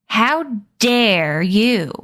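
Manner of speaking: very slow, falling, livid demand; slow furious rebuke, stressing how; livid shout. Acted. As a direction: drag each word out in fury. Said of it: "Addison shouted, livid".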